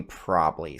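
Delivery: "probably" cut to PROB-lee; own pronunciation. Shown as a demonstration. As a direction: say "probably" in two syllables. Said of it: "I would probably say probably".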